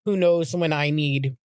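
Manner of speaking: really starting to cry while recounting; tearful. Real, not acted. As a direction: push on through welling tears. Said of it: "I know I'm crying".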